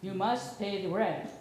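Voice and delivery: menacing melodrama villain demand; mustache twirling villain. Pretend. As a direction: growl it like a cartoon landlord.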